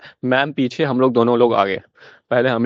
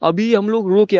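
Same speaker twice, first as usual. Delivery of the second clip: higher, laughing through the words; laughing while telling; 8 semitones higher than usual. Real, not acted. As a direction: let the giggle carry the line. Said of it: "हम दोनों की हंसी छूट गई". (हँसते हुए बोलना)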